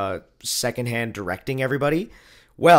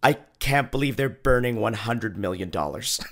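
laughing disbelief; 3 semitones lower than usual. Retold or imitated. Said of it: "I was like".

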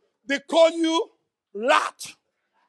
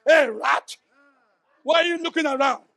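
barking gym coach; 3 dB louder than usual. Retold or imitated. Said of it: "come to your face to intimidate".

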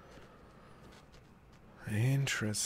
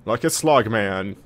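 mock manly; 7 dB louder than usual. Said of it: "The crowd wants me to fight like a man".

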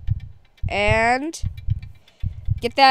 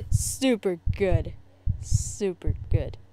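low, slow and soft; deflated mock approval; 6 semitones lower, 6 dB quieter, slower than usual. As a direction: let the pretend enthusiasm sink away, drawn out. Imagined parents' joy draining away.

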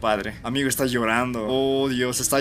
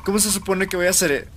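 incredulous; 5 semitones higher, 4 dB louder than usual. Real, not acted. Complaining at absurd game prompt.

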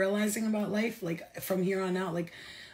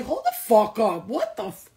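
mock yell; 3 semitones higher, 6 dB louder than usual. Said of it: "I was like".

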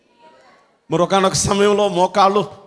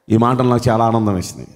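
ordinary talk, nothing marked

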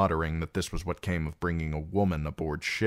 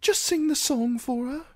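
pleading. A narrator's reading. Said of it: "Sam pleaded".

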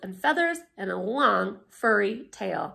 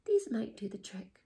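whisper; 4 dB quieter than usual. Acted. Old woman offers beans.

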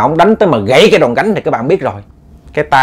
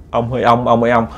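wife calling softly; 4 dB quieter than usual. Retold or imitated. Wife calls softly to husband.

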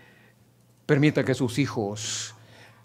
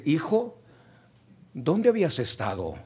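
calm gentle mother; 5 dB quieter than usual. Retold or imitated. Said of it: "No, no le grita".

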